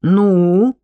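stern, one-word demand; understated storybook menace; menacing question. A narrator's reading. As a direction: demand an answer with mild threat. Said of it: "грозно спросил Суданский".

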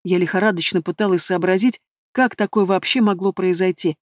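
plain reading voice

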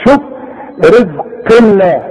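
ordinary talk

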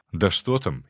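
plain reading voice

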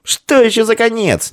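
high, indignant retort; displeased. A narrator's reading. Vtoryak rejects the gloomy warning, indignant and high. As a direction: bristle at the word. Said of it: "недовольно отозвался Вторяк".

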